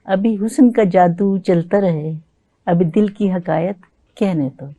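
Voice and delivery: slow, measured poem recital; stately nazm recitation. Acted. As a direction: recite it like at a mushaira.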